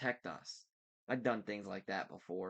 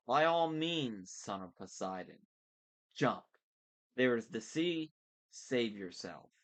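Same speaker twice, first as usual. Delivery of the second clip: villain voice; 4 dB louder than usual. Acted. Villain Thorne taunting.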